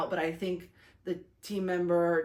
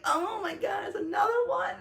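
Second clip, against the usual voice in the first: excited yelp; 11 semitones higher than usual. Retold or imitated. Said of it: "it's like".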